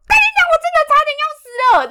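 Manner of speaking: high, loud, fast curse of relief; angry swearing. Retold or imitated. Rider who just dodged a falling tree, loud fast high curse. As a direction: spit out the curse after the near miss. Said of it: "就是说".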